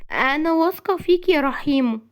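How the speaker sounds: high, emotional female voice; tender high-voiced woman; smiling, heartfelt. A narrator's reading. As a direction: tell him with a loving smile, pitched high. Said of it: "بابتسامة وتنهيدة حارة غنية بالمشاعر".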